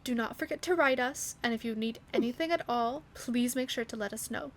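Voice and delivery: soft, firm motherly reminder; gentle yet stern instruction; softly but sternly. Acted. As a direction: mom sternly reminding son to write. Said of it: "very softly but sternly".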